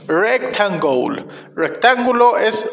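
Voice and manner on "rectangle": "rectangle" slowed syllable by syllable; drawn-out pronunciation model. Shown as a demonstration. Teacher telling children "like this", "rectangle" slowly drawn out. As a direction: stretch "rectangle" for learners to copy. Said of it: "Así, niños".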